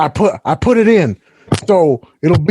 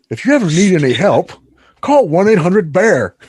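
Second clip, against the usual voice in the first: hard sell ad; 2 semitones higher than usual. Pretend. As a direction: sell it like a TV infomercial. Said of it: "talking like a commercial".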